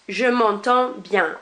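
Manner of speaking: "m'entends" stopped on the nasal vowel, D and S silent; "m'entends" with no D or S sounded; silent final D, S. Shown as a demonstration. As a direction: slowly, leave the end of "m'entends" unpronounced. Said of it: "I stop my pronunciation at that end".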